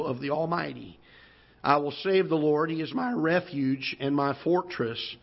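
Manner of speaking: measured, solemn Bible reading; scripture reading. Acted. Preacher reading the opening psalm verses to the congregation, measured scripture reading. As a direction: read the verse out deliberately, drawing out the close.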